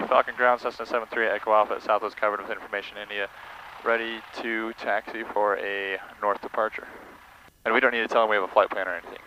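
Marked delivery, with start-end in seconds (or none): 0.1-6.9 rehearsing a radio call. Shown as a demonstration. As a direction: quietly talk through the radio call before keying up. Rehearsing radio call before making it.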